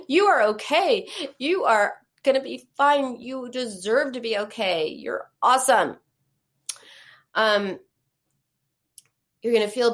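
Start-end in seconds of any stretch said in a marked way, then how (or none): 0.1-6.0 bright, encouraging reassurance. Shown as a demonstration. Therapist showing how to reassure a friend, warm and encouraging. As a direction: cheer a friend on warmly. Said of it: "You'd say".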